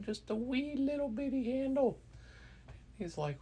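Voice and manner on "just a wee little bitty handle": very high, squeaky little storyteller voice; teeny-tiny voice. A narrator's reading. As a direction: make it sound as tiny as the handle. Shows how tiny the handle was.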